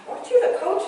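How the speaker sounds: high-pitched astonished question; surprised recognition. Retold or imitated. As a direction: imitate someone suddenly recognizing the coach. Acting out surprised officials' question.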